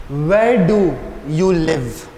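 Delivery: slow example reading. Shown as a demonstration. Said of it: "if you read this sentence".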